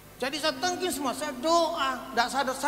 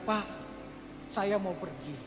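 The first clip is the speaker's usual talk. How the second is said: quiet, lowered voice; soft farewell; 3 semitones lower, 7 dB quieter than usual. Retold or imitated. Sick wife telling her husband she is leaving, soft farewell. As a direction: say it softly and low, as a retold goodbye. Dying wife's farewell, retold.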